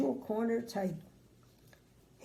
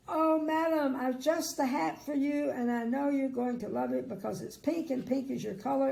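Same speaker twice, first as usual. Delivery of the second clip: gushing shop assistant; 3 semitones higher than usual. Acted.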